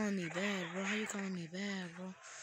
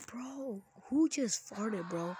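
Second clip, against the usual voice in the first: disgusted; 3 semitones higher, 5 dB louder, slower than usual. Real, not acted. Disgusted reaction.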